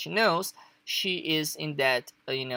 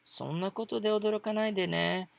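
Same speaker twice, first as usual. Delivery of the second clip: calming a friend, not scolding; easy reassuring request; calm gentle; 5 semitones higher, faster than usual. Shown as a demonstration. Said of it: "in a more, like, um, you know, calm way".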